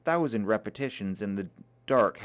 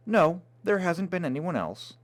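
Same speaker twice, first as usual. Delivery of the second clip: truculent; 6 semitones higher than usual. Acted. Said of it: "she answered almost truculently".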